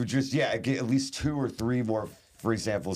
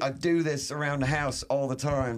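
put-on English accent, higher pitched; 3 semitones higher than usual. Shown as a demonstration. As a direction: show off your English accent. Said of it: "very good English accent".

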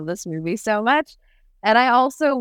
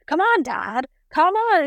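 whiny son; 10 semitones higher, slower than usual. Retold or imitated. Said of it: "half the time he's like".

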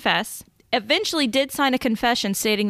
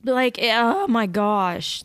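slow, tearful sigh of words; choked up with tears; crying; much slower than usual. Real, not acted. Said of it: "Let me wipe my eyes".

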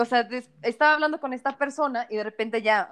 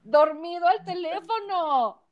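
louder, laughing, slowing at the end; retelling her own punchline laughing; laughing disbelief; 6 semitones higher, 4 dB louder than usual. Real, not acted.

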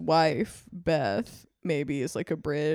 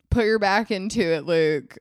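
mock bossy order; 6 dB louder than usual. Beth ordering Luke.

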